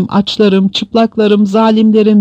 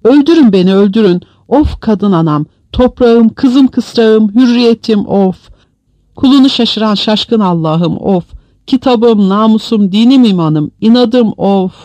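high, raised wailing lament; anguished pleading that climbs to a loud, high peak; heartrending outcry; 6 semitones higher, 4 dB louder than usual. A narrator's reading. Prisoner calls on loved ones and begs death, anguished cry. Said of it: "canhıraş bir bağırtı izledi".

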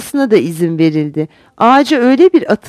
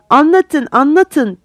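higher, louder eager plea; shouting; 6 semitones higher, 4 dB louder, slower than usual. A narrator's reading. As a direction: beg the storyteller loudly like kids. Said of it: "diye bağırdılar". (heyecanla bağırarak)

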